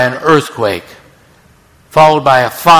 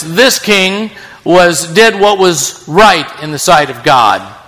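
emphatic announcement. Acted. Preacher announcing a good king.

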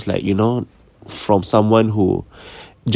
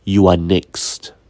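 very slow, a touch lower, lightly put-on man's voice; 3 semitones lower, much slower than usual. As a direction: drag it out like something else is speaking through her. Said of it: "and said in a man's voice".

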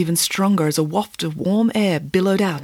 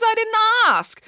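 higher, breezy dismissive nanny; Nanny Piggins voice. A narrator's reading. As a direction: shrug it off airily. Nanny voice continues.

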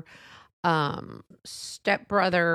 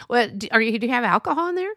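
louder, higher, prying follow-up; pushy loud probing; 3 semitones higher, 4 dB louder, faster than usual. Retold or imitated. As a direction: press her like a nosy guest. Busybody pressing Sissy.

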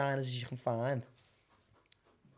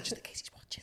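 whisper yelling; 13 dB quieter than usual. Real, not acted. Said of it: "Why are we whispering?".

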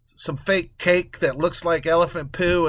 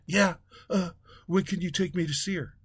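mock dazed husband; 3 semitones higher, 6 dB quieter than usual. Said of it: "it was just awful".

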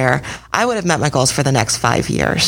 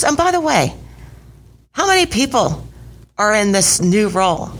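much higher, amused imitation of the coach; 7 semitones higher than usual. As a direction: mimic her teasing, laughing question. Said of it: "she's laughing".

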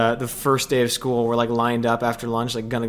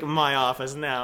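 stern principal; 4 dB quieter, slower than usual. Retold or imitated. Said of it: "she's like".

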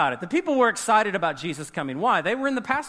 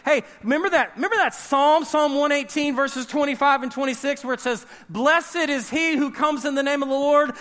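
excited crowd; 5 semitones higher than usual. Retold or imitated. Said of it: "they say".

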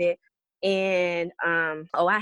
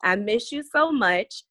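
put-on reading a child's letter. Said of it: "It says".

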